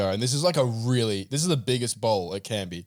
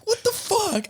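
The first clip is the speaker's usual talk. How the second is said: retold outburst; slower than usual. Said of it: "And I'm like".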